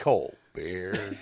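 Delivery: shouted cold beer call; stadium vendor hawking. Retold or imitated.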